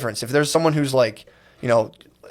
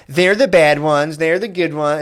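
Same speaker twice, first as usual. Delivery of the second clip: mocking partisan voice; 3 semitones higher, 4 dB louder, slower than usual.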